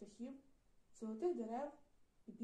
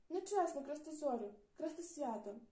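angry; 4 semitones higher, 4 dB louder than usual. Acted. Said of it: "сердито мовив хлопчик".

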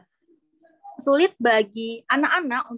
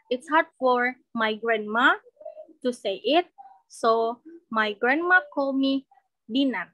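slow demo sentence; slower than usual. Shown as a demonstration. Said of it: "Misalnya kayak namaku".

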